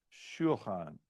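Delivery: "shulchan" with a slight break after shul; a small catch between the syllables of "shulchan"; break inside shulchan. Shown as a demonstration. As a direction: say "shulchan" as shul-chan, lightly separated. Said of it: "a little bit of a break".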